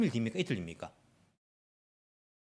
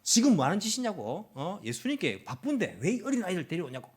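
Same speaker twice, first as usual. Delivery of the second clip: raised-pitch telling-off, strong at the start; scolding; 5 semitones higher than usual. Acted. Disciples to people bringing children to Jesus, cross scolding. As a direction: demand an explanation crossly. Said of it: "그때 제자들이 꾸짖습니다".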